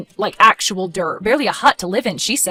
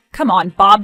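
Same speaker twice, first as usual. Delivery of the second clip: angry; 5 dB louder than usual. Acted. Quarrel between siblings.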